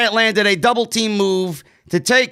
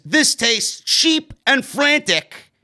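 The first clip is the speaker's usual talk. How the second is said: mock snooty; 3 semitones higher, slower than usual. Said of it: "She tasted it and says".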